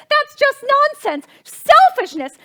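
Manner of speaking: loud, with a very slow "Downright rudeness"; fuming. Acted. Hostess fuming at the absent guest, slow and loud. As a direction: spit out each insult.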